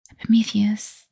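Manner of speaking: ordinary delivery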